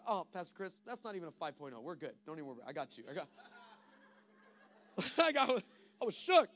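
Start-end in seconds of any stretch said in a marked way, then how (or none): 0.1-3.3 lower, softer, easy reassuring tone; calm reassurance. Retold or imitated. Host pastor calming his guest, soft and low. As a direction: soothe him, no worry at all. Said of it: "The pastor leans back and goes".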